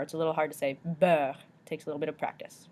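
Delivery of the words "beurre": Beurre with rounded "uh" and French R. Shown as a demonstration. Teacher shows a hard word, French EU-R in Beurre. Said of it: "got that E U followed by an R".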